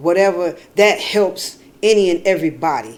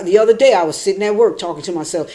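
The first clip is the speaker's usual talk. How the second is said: usual speaking voice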